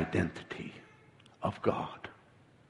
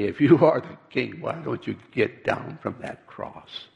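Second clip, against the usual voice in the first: mocking. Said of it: "Not for a moment expecting anything magic".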